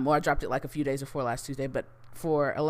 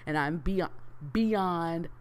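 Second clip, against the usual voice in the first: building excitement, rising higher each time; excited; 4 semitones higher, much slower than usual. Real, not acted. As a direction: climb higher on every beyond.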